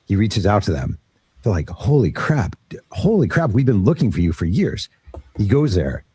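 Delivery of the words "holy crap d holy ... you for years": high-pitched astonished exclamation, retold; mock a stunned "can't believe it" reaction; excited disbelief, voiced lightly; amazed relatives.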